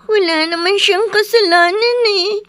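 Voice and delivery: tearful, sobbing through words; crying child. Acted. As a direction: speak while crying. (umiiyak na bata)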